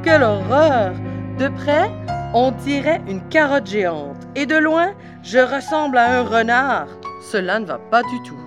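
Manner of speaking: horrified exclamation. A narrator's reading. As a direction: exclaim in theatrical horror.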